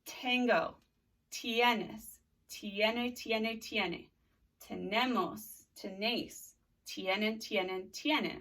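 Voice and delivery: steady chant of each form of tener; conjugation drill. Shown as a demonstration. Teacher drilling tener with students. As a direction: call out the verb forms for the class to repeat. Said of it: "Let's do tener".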